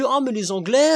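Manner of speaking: lightly mimicked starry-eyed sigh; a hint of fawning admiration; mocking gush. Vlogger mocking French fans of the English, mild mock gush. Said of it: "les gens adorent se dire que".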